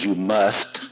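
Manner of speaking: "must" leaned on, imitating a preacher; stress on must. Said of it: "he emphasized that word".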